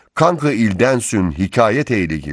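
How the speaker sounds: usual speaking voice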